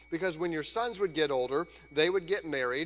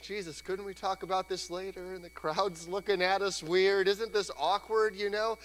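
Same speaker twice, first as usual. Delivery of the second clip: sheepish disciples; 4 semitones higher than usual. Retold or imitated.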